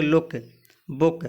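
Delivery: लुक, बुक each with a short 'u'. Shown as a demonstration. Teacher answering with लुक, बुक, short U. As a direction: keep the vowel brief in लुक and बुक. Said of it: "double O का उच्चारण ह्रस्व उच्चारण है".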